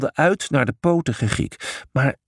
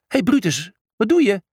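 hoge, verbaasde roep; roepende vraag; 8 semitones higher than usual. A narrator's reading. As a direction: roep je broer met hoge stem. Julius roept naar zijn broer. (hoog roepend gevraagd)

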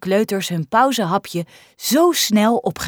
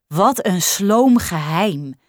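disappointed; slower than usual. Acted. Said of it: "zegt Lisa teleurgesteld".

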